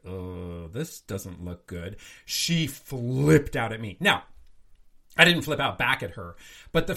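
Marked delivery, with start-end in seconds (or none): 0.1-2.0 soft, low, slow muttering; barely meant to be heard, low and soft; quiet worried mutter. Retold or imitated. Mother muttering over daughter's grades, low and soft. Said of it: "I really was like".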